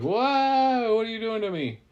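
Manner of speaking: high, loud whoa easing into a high-pitched question; startled protest. Acted. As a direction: yelp as if suddenly hoisted into the air. Worm startled at being picked up.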